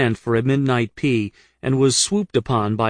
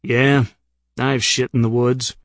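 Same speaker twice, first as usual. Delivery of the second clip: slow, macho drawl with a sniff; manly drawl. Pretend. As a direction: say it like a tough woodsman, slowly. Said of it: "say with a slow, manly sniff".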